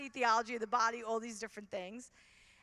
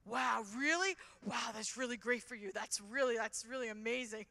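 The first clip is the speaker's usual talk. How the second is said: awkward impressed guy. Retold or imitated. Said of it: "And he's like".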